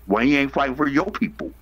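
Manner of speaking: ordinary delivery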